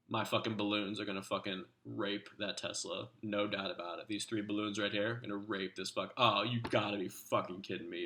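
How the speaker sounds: lightly voiced gamer friend cursing and groaning through his attack; Cursed Dude impersonation. Friend on voice chat reacting live to his own attack, a mild hammed-up impression. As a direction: play a stressed player narrating his own raid live. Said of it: "I'm gonna start pretending that I'm Cursed Dude".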